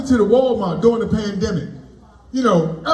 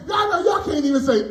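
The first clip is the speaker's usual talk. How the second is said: higher, pushy mock complaint; lightly raised retort to the girl; mock indignant retort; 5 semitones higher than usual. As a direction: fire back at her a bit higher. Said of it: "I'm like".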